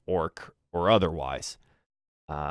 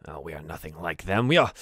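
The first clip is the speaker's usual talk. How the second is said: dismissive aside; 4 semitones lower, faster than usual. Acted. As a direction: brush it off under your voice. Butler disowns the other goblins.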